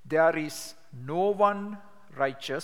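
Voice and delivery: slow, deliberate, no one stressed; measured demonstration reading; slow scripture reading. Shown as a demonstration. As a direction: read each word slowly, leaning on one. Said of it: "exactly how I do it when I share".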